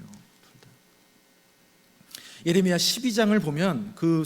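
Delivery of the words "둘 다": breathy whispered repeat of 둘 다; hushed aside to the congregation; whispered echo. Real, not acted.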